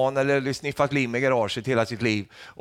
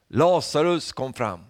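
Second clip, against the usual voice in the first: calling out; 3 semitones higher, 3 dB louder, slower than usual. Retold or imitated. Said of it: "Så ropar han ut Lazarus".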